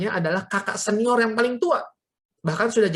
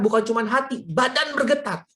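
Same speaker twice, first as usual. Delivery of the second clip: ordinary delivery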